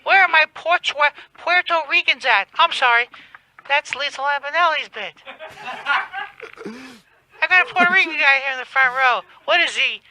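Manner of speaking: Kathy Griffin. Retold or imitated. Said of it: "Are you a Kathy Griffin gay".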